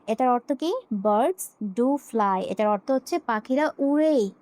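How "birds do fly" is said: "do" pressed hard in Birds do fly; stress on do. Shown as a demonstration. Teacher stresses "do" to show emphasis. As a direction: lean on "do", said slowly. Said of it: "আমি জোর দিয়ে বলছি".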